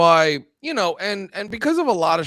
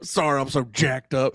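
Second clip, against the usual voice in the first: quoting congressman; 5 semitones lower than usual. Retold or imitated. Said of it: "I just love".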